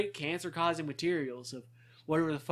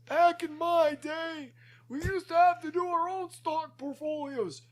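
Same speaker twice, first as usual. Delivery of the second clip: put-on old Jewish man voice; 12 semitones higher than usual. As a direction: play a cranky old man remembering. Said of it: "I'm really good with my old Jewish voice".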